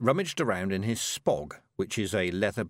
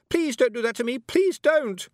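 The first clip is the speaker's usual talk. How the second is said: high, loud plea; frightened shout; 6 dB louder than usual. A narrator's reading. Anagramma begging Tiffany not to hurt her, shouting. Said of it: "she shouted".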